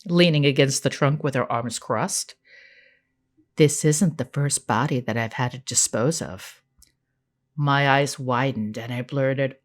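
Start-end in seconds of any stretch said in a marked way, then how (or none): 3.6-6.6 evil twinge. Acted. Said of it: "with an evil twinge in her voice".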